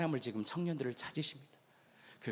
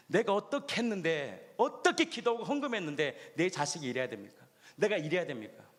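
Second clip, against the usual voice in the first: aggrieved complaint; 2 semitones higher than usual. Retold or imitated. Church members complaining to God, indignant.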